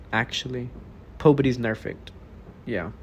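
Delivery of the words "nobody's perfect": "Pobody's nerfect" with the P and N swapped on purpose; swapped first sounds. Shown as a demonstration. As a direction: say "Pobody's nerfect" as a playful spoonerism. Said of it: "Pobody's nerfect".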